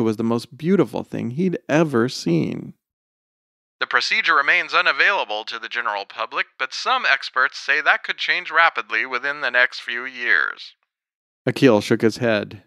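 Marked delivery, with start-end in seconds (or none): 3.8-10.7 lightly voiced, quick news read; a hint of fast newscaster delivery; TV reporter. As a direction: wrap up the report briskly.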